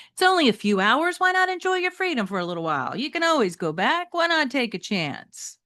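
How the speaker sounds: coaxing Metalhead voice. Acted. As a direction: tempt your friend to stay out. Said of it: "Metalhead asked".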